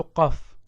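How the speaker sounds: throat Q in qaf; naming the letter qaf. Shown as a demonstration. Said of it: "la première du mot".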